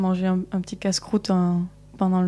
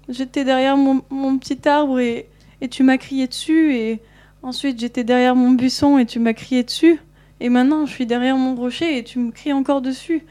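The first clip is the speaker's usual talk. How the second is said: higher, a small tearful wolf complaining; weepy little voice; 5 semitones higher, 3 dB louder than usual. Acted. Wolf complains to the girl who kept yelling, higher weepy voice. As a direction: whine like a hurt child, lightly voiced wolf. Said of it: "une petite voix, euh, toute pleurante".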